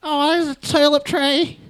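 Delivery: high, slow, exaggerated Australian redneck; Australian redneck accent. Asked for best Australian accent, hammed-up high redneck Australian. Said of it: "That's an Australian redneck accent".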